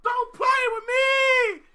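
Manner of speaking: high, very loud outburst; excited yelling. Real, not acted. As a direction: yell in disbelief at full volume. Stunned excited reaction to song.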